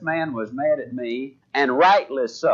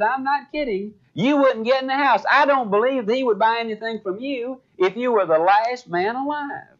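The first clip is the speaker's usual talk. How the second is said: higher-pitched imitated scolding; acting out an indignant sister; retold warning; 6 semitones higher than usual. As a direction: insist in a raised, higher voice. Sister warns him off, retold.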